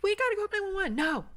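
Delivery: high loud pleading shout; desperate shout. Retold or imitated. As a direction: yell at him to call nine one one. Arguing with husband.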